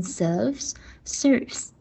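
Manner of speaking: serves without R, then with a clear R; missing R corrected. Shown as a demonstration. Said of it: "R音没有".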